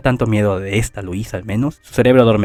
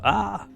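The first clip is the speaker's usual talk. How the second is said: high soft yelp; 9 semitones higher, 9 dB quieter than usual. A narrator's reading. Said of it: "Subaru grita".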